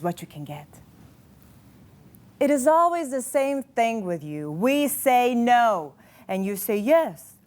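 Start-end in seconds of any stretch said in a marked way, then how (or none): 2.4-7.3 indignant accusation. Acted. Acted accusation of a controlling man.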